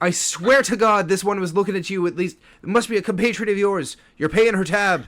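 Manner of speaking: a dwarf bartender demanding her bill be paid; mock indignant dwarf. Dwarf bartender to the elf, pushy mock accusation.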